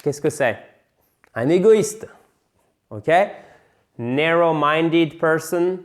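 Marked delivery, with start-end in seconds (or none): 4.0-5.8 NAR in Narrow-minded stressed, slow; stress first syllable. Shown as a demonstration. Teacher modelling stress on Narrow-minded for learners. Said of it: "faites bien l'accent sur la première syllabe".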